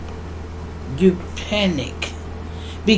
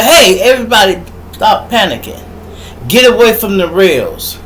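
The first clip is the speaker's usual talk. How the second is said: calling out orders; 3 semitones higher, 5 dB louder than usual. Acted. Acts a leader calling out orders.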